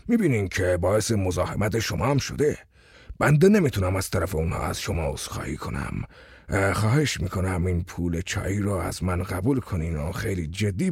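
butter up the officer with a low voice; a hint of an eager flatterer; smooth-talking tenant.

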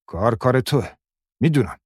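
a husband shouting an accusation. A narrator's reading. Husband storming in, yelling at his wife. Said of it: "داد زد".

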